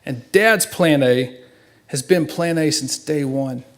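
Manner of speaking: slow, each word weighted for the mourners; slow emphasis. Real, not acted. Son at funeral stressing his father's faith, slow and solemn. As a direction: lay down plan A slowly and solemnly. Eulogy turning to faith message.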